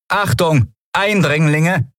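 high-pitched robotic warning, drawn out at the end; stiff, high automated alert; rasping machine alarm. A narrator's reading. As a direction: announce it like a security machine. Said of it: "schnarrte die Kugel".

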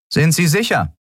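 high, doubting official voice; suspicious. Acted. The officer doubting Kero, high and suspicious. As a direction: press him with suspicion.

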